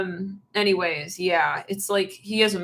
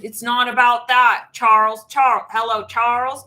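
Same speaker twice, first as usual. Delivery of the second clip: louder, slow, insistent scolding; mock exasperated scolding; 2 semitones higher, 7 dB louder, slower than usual. Partner scolding Charles, loud and slow. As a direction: drag out the name to snap him back.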